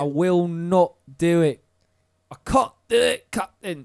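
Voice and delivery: loud, slow hammed-up pirate accent. Host defies friend's demand, hammy pirate accent. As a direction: plead like a bad movie pirate accent. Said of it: "You sound like a pirate".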